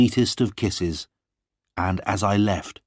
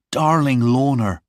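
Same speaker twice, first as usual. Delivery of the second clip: cried out; 6 semitones higher, 5 dB louder than usual. Acted. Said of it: "I cried".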